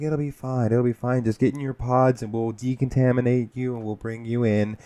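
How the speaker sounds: a light take on a brassy New York lady; breezy, reassuring vault worker, lightly voiced; Fran Drescher. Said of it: "she would talk like Fran Drescher".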